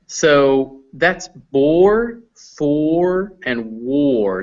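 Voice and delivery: bore, for and war, each vowel drawn out slowly; vowel demo. Shown as a demonstration. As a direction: stretch the O sound in bore, for, war. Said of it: "It's an O sound".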